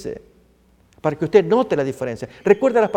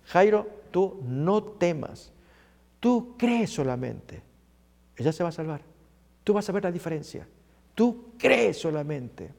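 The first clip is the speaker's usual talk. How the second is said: calm and unhurried, phrase by phrase; Jesus reassuring Jairo; 7 dB quieter than usual. Acted. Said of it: "Oyéndolo Jesús le responde".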